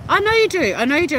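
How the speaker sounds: big high goofy bellow; dopey cartoon bellow. Real, not acted. Loud high repeated reply.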